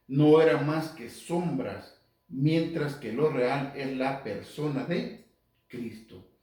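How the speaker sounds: slow, weighty scripture reading; lectura bíblica enfática. Acted. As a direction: proclaim the verse phrase by phrase. Relee el versículo en voz alta. (lectura enfática y pausada del versículo)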